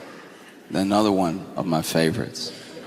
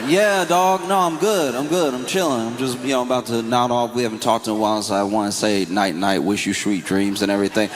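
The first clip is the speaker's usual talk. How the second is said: casual caller. Retold or imitated. Caller reassuring his friend.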